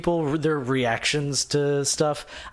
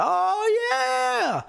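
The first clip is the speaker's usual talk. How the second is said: very high, stretched-out squeal; re-enacted high fan squeal; mock excited cheer. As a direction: cheer it in hammed-up delight. Acting out first excited reaction.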